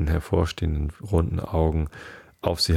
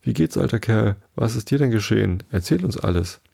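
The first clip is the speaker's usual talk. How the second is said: muddled voices; 4 semitones higher than usual. Acted. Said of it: "verworrene Stimmen".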